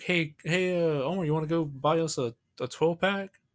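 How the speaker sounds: put-on casual invitation in a stereotype Southern accent. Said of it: "stereotype, like, Southern accent".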